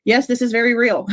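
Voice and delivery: fast, giddy, through laughter; giddy laughing confirmation. Real, not acted. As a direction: laugh the words out in disbelief. Laughing in disbelief at news.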